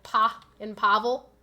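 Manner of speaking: "pa" set apart, then Pavel stressed on PA; slowly single out the "pa" in Pavel; emphasis on pa. Shown as a demonstration. Streamer showing how she says a name, "pa" in Pavel stressed. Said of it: "put a lot of emphasis".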